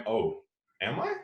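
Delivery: rising oh am I, then a sheepish maybe I am; dawning realisation, a bit sheepish; surprised self-questioning. Retold or imitated. A parent told by their son that they yell, admitting it surprised.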